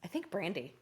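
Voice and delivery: very soft, low, sighing answer; sigh, then answer quietly and reluctantly. Real, not acted. Guest torn between two favorite singers, answering with a reluctant sigh. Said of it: "you let out a sigh of air before you answered".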